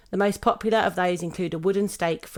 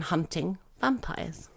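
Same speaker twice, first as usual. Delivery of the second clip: spooky whisper; 6 dB quieter, slower than usual. Acted. Spooky story narration.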